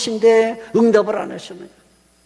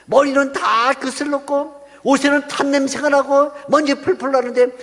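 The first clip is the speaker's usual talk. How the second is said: a higher-pitched hint of an accusing devil; lightly voiced accusing devil; 4 semitones higher than usual. Devil denouncing Joshua before God, lightly acted accusation. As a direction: lightly act out an accuser pleading his case. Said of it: "마귀가 하나님에게".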